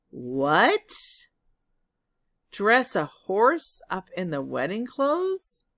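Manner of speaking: loud, astonished questions; can't believe what you heard; shocked women. Acted. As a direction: kitchen women reacting to dressing a horse.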